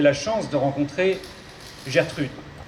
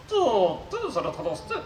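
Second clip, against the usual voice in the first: robot voice with garbled consonants. Acted. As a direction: mangle the consonants like a glitchy robot. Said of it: "souffre d'une pathologie vocale".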